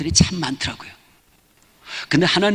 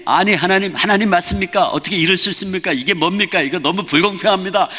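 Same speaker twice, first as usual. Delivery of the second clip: higher-pitched mock protest; retold indignant challenge to God; arguing back; 4 semitones higher than usual. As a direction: press the complaint in a raised pitch. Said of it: "그래서 막 따졌더니".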